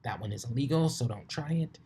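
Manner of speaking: a hint of a flustered librarian pony; brisk bookish unicorn, lightly done; Twilight voice. Twilight voiced in fanfic reading.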